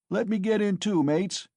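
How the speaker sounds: high, loud eager shout. Acted. Young man in the crowd begging a seat, loud shout. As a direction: beg to join in. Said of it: "shouted a young man in the crowd".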